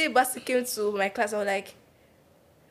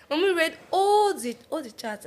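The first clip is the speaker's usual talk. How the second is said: laughing; 7 semitones higher than usual. Real, not acted. Laughing retelling of mom reading chats.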